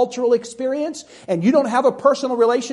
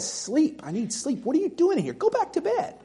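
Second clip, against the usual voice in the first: sleepy grumbling Eli; 7 semitones higher, 7 dB quieter than usual. Acted. Old priest woken at night.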